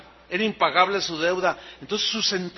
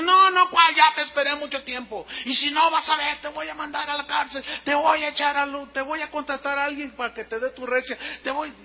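angry threats; 7 semitones higher than usual. Retold or imitated. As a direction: rattle off threats at the debtor, hammed-up. Creditor threatens debtor with jail.

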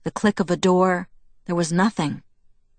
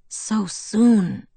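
hushed, sorrowful sigh of words; breathed lament; 4 semitones higher than usual. A narrator's reading. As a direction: let it out like a lament, not a question. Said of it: "he breathed".

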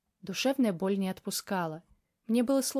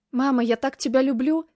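joyful cry; 5 semitones higher, 6 dB louder than usual. Acted. Heroine cries out to mother.

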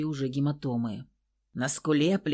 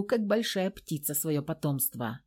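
ordinary delivery

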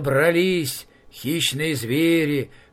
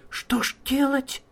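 hare voice; 11 semitones higher than usual. Acted.

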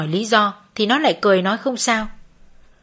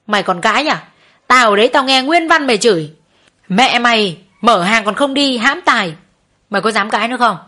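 jab at her as you scold; moderately heated telling-off; angry accusation; 4 dB louder than usual. Acted. Chỉ tay vào mặt nó.

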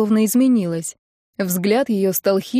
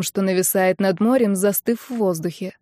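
ordinary delivery

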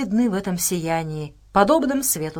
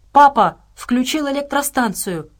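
higher, louder excited exclamation; exclaiming; 6 semitones higher, 5 dB louder than usual. A narrator's reading. Sasha announces the power station is on, exclaiming. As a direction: call out the discovery, raised and excited. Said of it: "воскликнула Саша".

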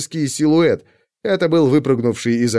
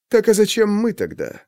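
surprised; 8 semitones higher than usual. A narrator's reading. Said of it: "удивился Чикатило".

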